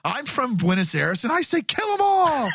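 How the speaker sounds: high, shouted movie-soldier line; mock soldier shout. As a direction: yell it like a gung-ho trooper. Quoting Starship Troopers line.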